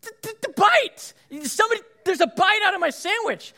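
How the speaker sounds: high, stammering hammed-up alarm; mock panic. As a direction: sputter it out in comic shock. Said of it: "I'm like".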